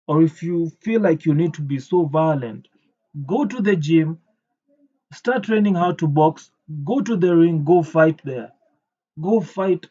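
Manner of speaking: venting furious advice at the killer; worked-up rant, pushing each go; real anger. Real, not acted. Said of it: "I'm so pissed off by this".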